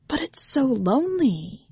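put-on a small boy's sad plea; child. A narrator's reading. Boy Ravi tells the tiger he is lonely, high and small.

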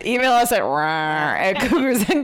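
laughing, high voice. Real, not acted. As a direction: giggle through the words. Laughing through the sign-off.

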